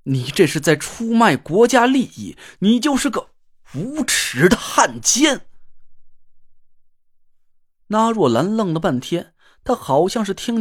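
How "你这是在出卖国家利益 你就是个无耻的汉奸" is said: each syllable spaced and hit hard; word by word. Acted. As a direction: spell out 无耻的汉奸 slowly, one word at a time. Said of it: "一字一顿地".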